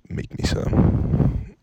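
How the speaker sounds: drawn-out bossy order; each word slow and flat as an order; slow curt demand. Retold or imitated. Imitating dad demanding food, slow bossy order. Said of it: "It's a demand at that point".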